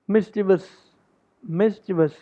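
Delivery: Mischievous as MIS-chi-vus; three-syllable pronunciation. Shown as a demonstration. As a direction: keep Mischievous short, no extra 'ee'. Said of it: "it's a three syllable". (Mischievous को तीन हिस्सों में, 'मिस-चि-वस' बोलें)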